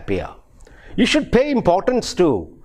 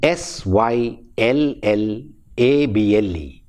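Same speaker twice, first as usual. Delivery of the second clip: spelled out letter by letter; 4 semitones lower than usual. Shown as a demonstration. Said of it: "what is a syllable".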